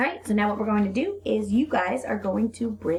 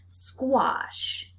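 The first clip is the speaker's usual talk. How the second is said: whispered word; 5 semitones higher than usual. Shown as a demonstration. Teacher whispering a word for the class to repeat. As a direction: breathe the word out for them to repeat. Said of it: "repeat it back to me".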